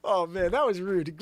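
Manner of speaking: Zabrosk voice. Retold or imitated. Host imitating Zabrosk's rude nickname for Joanne. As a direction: toss it off like an eager sidekick. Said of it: "Did you hear him?".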